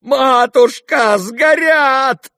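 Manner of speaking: high, loud, drawn-out wail on Матушка; wailing cry. Acted. Lebedev wailing at the fire, high and loud. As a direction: wail over the burning money. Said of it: "вопил Лебедев".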